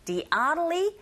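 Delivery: "oddly" with the d lightened almost to an r; softened d. Shown as a demonstration. Teacher models the d sound, "oddly" with d softened toward r. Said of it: "약간 르에 가깝게 들리게 되죠".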